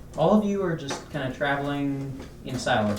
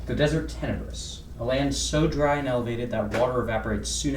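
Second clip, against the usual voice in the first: measured, storylike scene setting; game master narration; 4 dB quieter than usual. Acted. Game master opens the desert tale for players, narration. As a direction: narrate the world like a tabletop storyteller.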